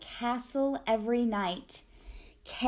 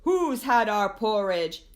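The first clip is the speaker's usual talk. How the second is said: mock indignant bear voice; bears demanding who ate their porridge, mock indignant; 4 semitones higher, 4 dB louder than usual. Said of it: "who cried".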